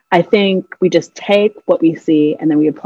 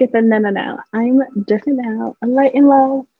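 higher-pitched mocking self-description; mock spiritual voice; 5 semitones higher than usual. Mimicking spiritual people claiming they changed, mocking. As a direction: put on a spiritual person's airy self-assurance.

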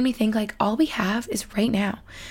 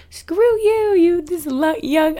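high-pitched mock rejection; mock indignation; 8 semitones higher, much slower than usual. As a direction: play an outraged seller, hammed-up. Imagines sellers rejecting her offer.

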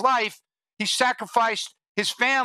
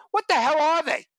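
baffled outburst; 6 semitones higher than usual. Retold or imitated. Scratching my head, baffled.

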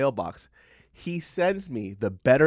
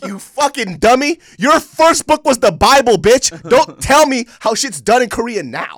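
shrieking imitation of mom; 10 semitones higher, 12 dB louder than usual. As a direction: screech mom's words back in a shrill cartoon voice. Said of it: "She goes".

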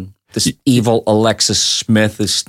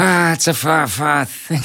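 posh British; 4 semitones higher than usual. Retold or imitated. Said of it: "sounded like Ronald Coleman".

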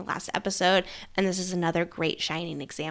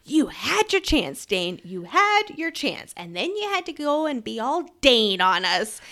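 slow, drawn-out reproach, pitched up; mock scolding; 3 semitones higher, 4 dB louder than usual. Reader cursing at Dane in a reaction video, mock scolding. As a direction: scold him like a let-down fan. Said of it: "I just started cussing at him".

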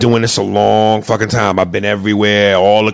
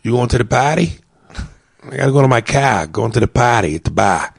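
put-on Boston accent. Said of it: "guys that I know from Boston have those accents".

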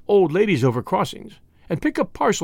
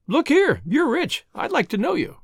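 high-pitched mock approach to a stranger; mock introduction; 7 semitones higher than usual. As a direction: pitch it up, pretending to accost someone. Imagined approach to rich stranger.

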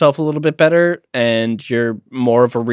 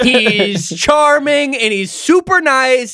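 mock grudging praise; 7 semitones higher than usual. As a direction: praise him like it's a crime. Ironic praise, slow, high.

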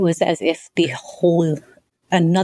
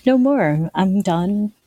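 defiant declaration. Retold or imitated. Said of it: "So I said".

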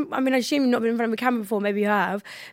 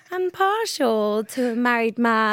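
posh voice; slower than usual. Retold or imitated. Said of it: "can you do the posh voice for me?".

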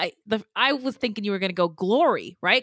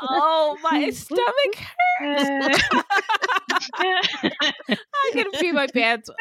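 after laughing hard; 5 semitones higher, much slower than usual. Real, not acted. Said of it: "I'm crying".

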